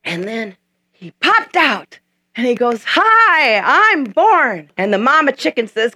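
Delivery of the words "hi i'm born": bright newborn eaglet announcing itself; cheery baby eaglet. Acted. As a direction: greet the world like a just-hatched chick.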